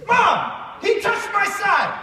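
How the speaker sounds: high shrill-free whine to Mom; whiny tattling little sibling. Retold or imitated. Sister tattling in the car.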